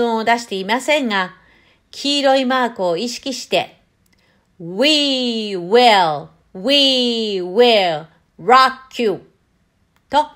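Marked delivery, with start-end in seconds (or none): 4.6-9.2 a song line with long drawn-out "We" and "will"; slow, deliberate model of the song line; cool pronunciation demo. Shown as a demonstration. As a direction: stretch each "We will", then land "rock you" firmly. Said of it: "かっこよく発音してください".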